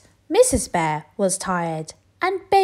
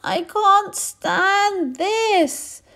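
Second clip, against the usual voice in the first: very slow, higher, louder complaint; exasperated bear; 13 semitones higher, 4 dB louder, much slower than usual. Acted. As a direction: drag it out, fed up. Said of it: "said Mister Bear".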